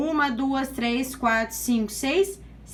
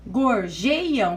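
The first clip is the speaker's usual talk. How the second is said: "Gorjeiam" drawn out syllable by syllable; teacher sounding out each part of "Gorjeiam"; separated syllables. Shown as a demonstration. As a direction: divide "Gorjeiam" into slow, distinct syllables. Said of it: "Então, vamos lá separando".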